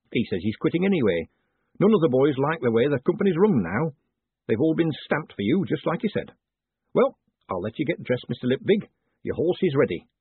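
chatty, lilting mayor's voice; eager mayor. Acted. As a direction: reassure like a busy small-town mayor.

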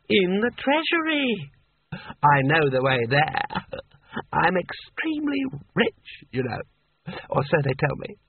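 slow, high tipsy boasting; drunk sultan voice. A narrator's reading. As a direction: brag vaguely and slowly.

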